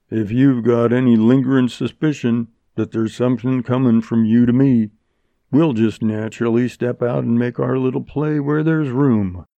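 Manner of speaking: level, lightly voiced Western outlaw; challenging bandit. Black Jim challenges Montgomery, cool and even. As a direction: offer a fight with cool, even menace.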